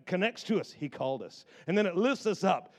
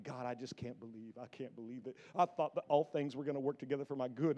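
mock lament; 3 semitones lower, 5 dB quieter than usual. Bottle laments to God in closet.

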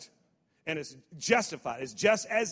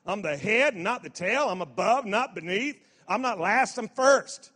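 each claim louder up to first; building proclamation; 3 semitones higher, 5 dB louder than usual. Acted. Preacher rousing the congregation, building louder. Call and declare.

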